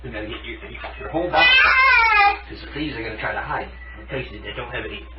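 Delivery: comforting tone. Real, not acted. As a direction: hush him gently so he stays calm. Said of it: "talk to them in, like, a comforting tone".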